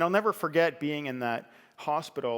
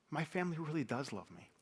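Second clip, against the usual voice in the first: surprised; 4 semitones higher, 6 dB quieter than usual. Retold or imitated. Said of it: "almost with an intonation of, like, he's, he's shocked".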